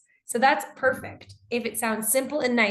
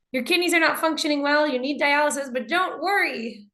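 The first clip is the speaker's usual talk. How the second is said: cheering on; 4 semitones higher than usual. Acted. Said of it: "like you're trying to really cheer on the patient".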